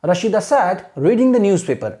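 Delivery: very slow, careful read-aloud; slow teacher demo reading; slow model reading. Shown as a demonstration. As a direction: read it slowly for students to copy. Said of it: "ऐसे ही आपको imitate करना है".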